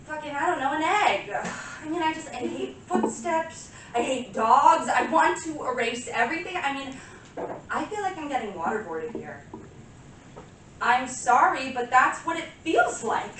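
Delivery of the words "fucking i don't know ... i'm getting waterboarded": higher, agitated acted outburst; exasperated rant. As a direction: vent to Lewis, pitch jumping up. Monologue, neighbour noise driving composer mad.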